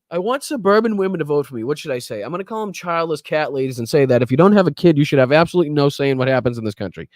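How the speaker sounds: mock-earnest campaign scheming aloud; sarcastic imitation. Host voicing a candidate courting suburban women, sarcastic. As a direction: play a clueless candidate thinking out his pitch.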